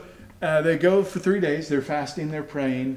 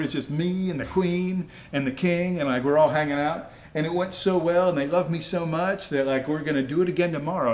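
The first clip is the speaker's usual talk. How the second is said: smug bragging. Retold or imitated. Haman bragging to his family.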